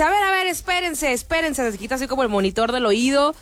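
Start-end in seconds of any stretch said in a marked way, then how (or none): 0.0-1.7 higher, hands-up stalling; a lightly voiced puzzled star; mock singer. Imitating the singer asking the crowd to wait. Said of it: "le dice".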